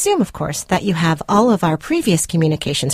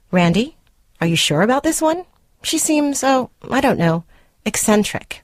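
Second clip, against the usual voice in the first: lightly voiced mother, higher and doubtful; a hint of a fretting mother, pitched up; imitating his mother; 5 semitones higher than usual. To her boyfriend, quoting his mother in a higher mock voice. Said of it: "a comment from your mother that states".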